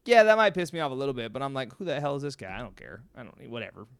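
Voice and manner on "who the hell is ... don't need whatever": dropping low and soft, dismissive. Acted. Shrugging off a random guy's insult, dismissive. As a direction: shrug it off, trailing away.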